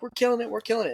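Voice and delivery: a hammed-up team cheering itself on; mock excited bragging. Player boasting about the team, in a high mock-excited voice.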